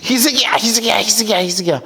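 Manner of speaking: 이름을 점점 작아지게 되풀이; 약 올리며 부르다 잦아들기; 조롱하는 부름 흉내. Retold or imitated. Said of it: "이럽니다". (점점 잦아드는 조롱조 부름)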